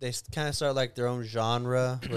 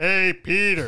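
loud, belted-out cartoon character voice; 4 semitones higher, 7 dB louder than usual. Trying a voice while the others say it doesn't match, Joe Swanson impression. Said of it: "You just don't sound like".

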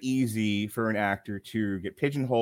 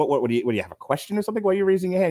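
put-on flustered woman's voice, higher, faster; 8 semitones higher than usual. Recounting a movie scene, speaker quotes her reply, imitating a flustered woman. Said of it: "she kind of flustered goes".

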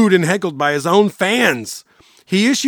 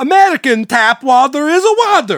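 Russian accent with pitched-up voice; 7 semitones higher, 4 dB louder than usual. Urging friends to get tickets and go together, in a Borat accent. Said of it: "I want to keep doing the accent".

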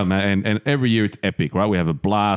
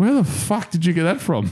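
put-on sloppy drunken slur, very high pitch; 10 semitones higher than usual. Retelling asking a woman where she got the food, imitating own drunk slurring. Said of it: "slurring my words".

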